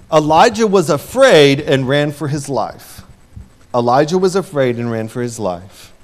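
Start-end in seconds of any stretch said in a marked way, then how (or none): 0.1-3.0 lively, pressing delivery; emphatic first reading; dramatic read. Real, not acted. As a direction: tell it with drama. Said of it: "repeated line".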